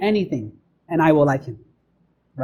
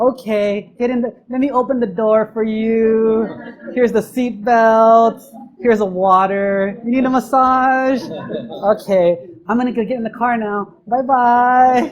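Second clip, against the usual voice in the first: put-on eager boyfriend; 4 semitones higher, 4 dB louder than usual. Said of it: "You know, like".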